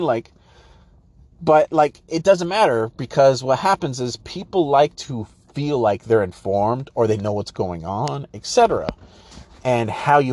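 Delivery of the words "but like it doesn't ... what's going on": normal talking voice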